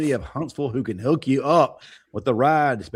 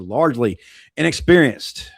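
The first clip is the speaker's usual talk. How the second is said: LARGELY repeated louder and firmer; stress on LARGELY; 2 semitones higher, 6 dB louder than usual. Real, not acted. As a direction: lean on the word LARGELY for emphasis. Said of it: "I stress that word".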